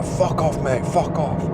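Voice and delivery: high, aggressive yell in a mock Eastern European accent; Eastern European shout. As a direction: bark it like the thief warning him off. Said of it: "like, Eastern European or something".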